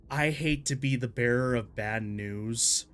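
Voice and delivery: a hint of Sean Bean's northern English, unhurried; mild northern English accent of a weary messenger. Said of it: "Okay, Sean Bean".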